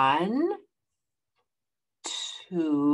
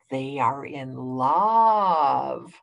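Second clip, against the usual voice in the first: slow, lower dreamy Piggy; 6 semitones lower, much slower than usual. Acted. Piggy voiced in picture book.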